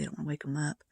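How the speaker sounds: soft hushed whisper; quiet at night. Real, not acted. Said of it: "I don't wanna speak too loudly".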